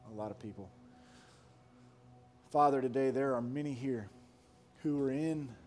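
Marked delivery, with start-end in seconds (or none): 2.5-5.5 earnest, measured prayer voice, softening at the ends; pastoral prayer. Acted. Pastor praying for listeners in a dry place, hushed.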